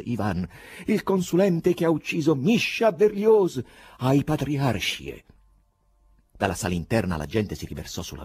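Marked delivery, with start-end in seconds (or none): 0.9-5.2 high, loud, drawn-out denunciation; shouted accusation. A narrator's reading. Poet telling crowd who killed Berlioz, shouting. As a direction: announce it slowly at full voice.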